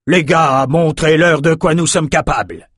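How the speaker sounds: ordre beuglé, plus aigu et fort. A narrator's reading. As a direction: lance tes hommes à l'assaut en braillant. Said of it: "Enoch beugla un ordre". (Enoch à ses soldats, ordre beuglé)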